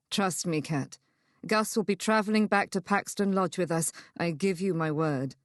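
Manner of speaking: lightly voiced man, calm and sure; steady, reassuring male lead; reassuring male character.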